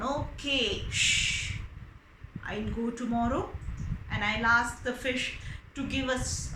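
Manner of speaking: low, soothing give-in; calm her down, resigned; lightly voiced meek husband; placating husband. Husband placating angry wife.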